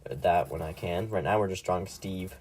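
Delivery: speaking through a burp; talking while burping. Real, not acted. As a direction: burp slipping into words. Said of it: "Sorry, I keep burping".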